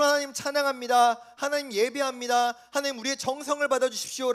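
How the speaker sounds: hammed-up pious declaration; showy outward worship. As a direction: recite praise loudly, all surface. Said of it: "겉으로".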